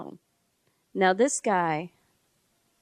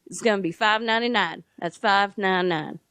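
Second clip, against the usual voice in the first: car salesman pitch. Retold or imitated. Funeral home guy quoting cremation like a car dealer. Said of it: "selling me a car on T V".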